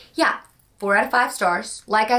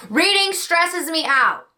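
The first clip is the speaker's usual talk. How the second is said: higher, fretful self-quote; mock frazzled self; 8 semitones higher than usual. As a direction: play your own overwhelmed inner voice. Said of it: "I'm always like".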